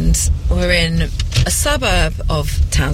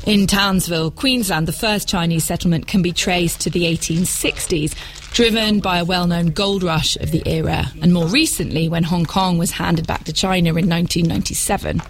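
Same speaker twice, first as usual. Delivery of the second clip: measured, scripted radio narration; documentary narration. Acted. Presenter links modern China to its history, documentary narration.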